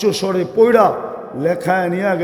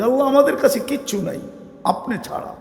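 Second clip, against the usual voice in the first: humble prayer; 4 semitones higher, 5 dB quieter than usual. Acted.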